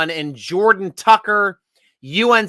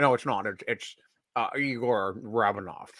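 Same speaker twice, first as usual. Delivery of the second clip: low Russian captain voice, Scottish lilt; lightly voiced Russian commander; Scottish Russian accent; 7 semitones lower, 9 dB quieter than usual. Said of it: "best Scottish Russian accent".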